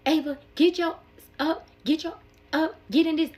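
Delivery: loud, high angry dad; cursing her out. Retold or imitated. Dad ordering his daughter into bed, cursing her out. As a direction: bark orders, imitating a furious father. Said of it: "he's cursing her out".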